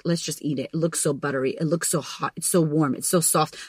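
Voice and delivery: low, soft, coaxing murmur; tempting inner voice. Retold or imitated. Her brain tempting her at breakfast, low coaxing murmur. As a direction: seduce yourself with the toast, softly.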